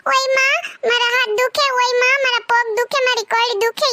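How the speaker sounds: imitating a whiny complaining mother-in-law; lightly voiced mother-in-law moaning about aches; mock whining. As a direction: whine it like fake aches. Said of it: "એવા બાના કાઢે".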